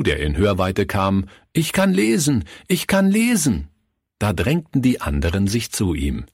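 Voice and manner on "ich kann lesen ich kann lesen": high, bright shout of joy; boy calls out to everyone he meets, excitedly; excited calling out. Acted. Günther calls to everyone he meets, high and excited. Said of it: "rief er jedem zu".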